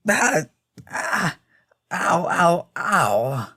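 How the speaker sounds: high, short "ah" and "ow" yelps of pain. Acted. Thrown rider reacting to the fall, pained yelps. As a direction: yelp as if you just hit the ground.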